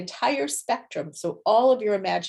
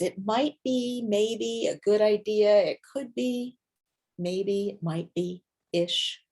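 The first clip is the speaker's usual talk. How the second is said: timid hedging; 2 semitones higher, slower than usual. Shown as a demonstration. A teacher showing students the timid intuitive voice, hesitant. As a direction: hedge every word as if afraid to commit. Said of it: "the way it sounds when you start to use it".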